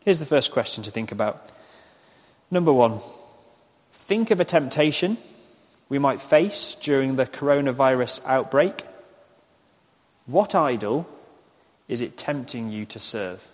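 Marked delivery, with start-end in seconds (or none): 2.5-13.5 measured, with pauses between phrases; slow dictation. Real, not acted. Preacher giving congregation a question to write down, slow dictation. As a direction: spell the question out for note-takers, phrase by phrase. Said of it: "I'll say them slowly".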